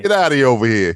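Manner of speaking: mock Italian-American street accent; put-on Italian-American tough guy. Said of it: "you sound like you're, like, from the".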